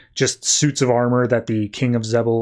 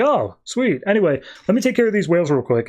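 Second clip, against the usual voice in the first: casual excited; 5 semitones higher than usual. Retold or imitated. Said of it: "he's like".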